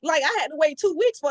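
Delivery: a real "what, already?"; surprised disbelief. Real, not acted. Disbelief at fast reply.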